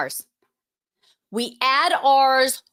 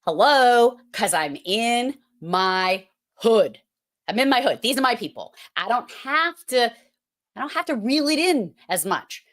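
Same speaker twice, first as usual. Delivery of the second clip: put-on strong Boston accent. Teacher retelling her reply to Chris, broad accent. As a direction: lean into your hometown accent. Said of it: "And I'm like".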